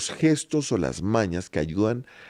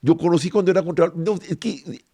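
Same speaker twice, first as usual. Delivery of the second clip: loud, higher anchorman announcement; Jorge Alfredo Vargas newscaster; 7 semitones higher, 4 dB louder than usual. Retold or imitated. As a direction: greet the audience like a TV news anchor. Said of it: "hablado es Jorge Alfredo Vargas". (imitando a Jorge Alfredo Vargas, presentador de noticias)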